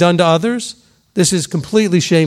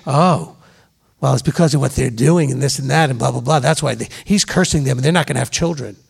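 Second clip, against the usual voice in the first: mock lashing out; 6 semitones lower, 3 dB quieter than usual. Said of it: "people were lashing out and saying".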